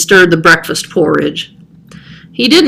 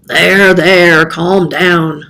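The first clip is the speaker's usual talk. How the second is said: soothing shush; much slower than usual. Acted. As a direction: hush the upset cat gently. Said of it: "Festus shushed him".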